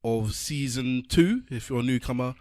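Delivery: rolling, energetic show opener; podcast host intro. Real, not acted. Host welcoming listeners to another podcast episode, announcer delivery.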